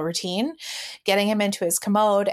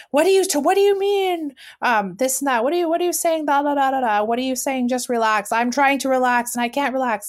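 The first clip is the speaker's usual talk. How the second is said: much higher and louder, flustered defensive outburst; partner's overreaction; 6 semitones higher, 4 dB louder than usual. Retold or imitated. Partner snaps back at her after being told to relax, high and loud. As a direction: play him flaring up, voice shooting high. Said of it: "the floodgates open where it's like".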